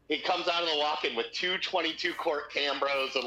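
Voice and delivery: ordinary delivery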